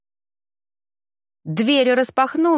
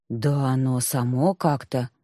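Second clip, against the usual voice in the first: flustered; 8 semitones lower than usual. A narrator's reading. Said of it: "растерялась я".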